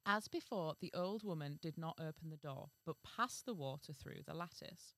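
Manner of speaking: measured fairy-tale reading; story narration. A narrator's reading. Reading a fairy tale to the co-host, measured narration. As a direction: read it out as a storyteller.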